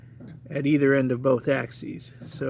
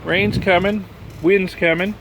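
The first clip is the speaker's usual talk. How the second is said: shouting over wind; 4 semitones higher than usual. Real, not acted. Talking over storm wind outside.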